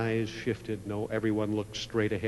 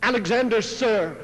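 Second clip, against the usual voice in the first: frightened stammer; 11 semitones higher, 7 dB louder than usual. A narrator's reading. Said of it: "the boy stammered and said".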